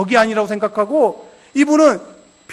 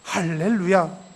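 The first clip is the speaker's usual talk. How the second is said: halting first word; 5 semitones lower, 6 dB quieter, much slower than usual. Retold or imitated. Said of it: "한마디 한마디 하게 돼요".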